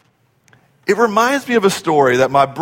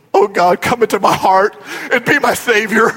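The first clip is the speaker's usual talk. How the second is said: nervous prayer; 3 semitones higher than usual. Retold or imitated. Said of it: "the intensity in Richard's voice starts rising".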